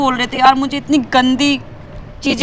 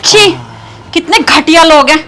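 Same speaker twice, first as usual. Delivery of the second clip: disgusted; 2 semitones higher, 5 dB louder than usual. Acted. Disgusted at the harasser.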